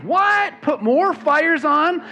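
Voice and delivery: high, shocked mock what. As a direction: squeak out a high stunned what.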